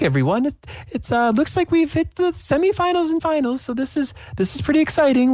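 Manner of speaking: very high, bubbly show host; host a cooking show, high. Acted. GM voices TV host Sue.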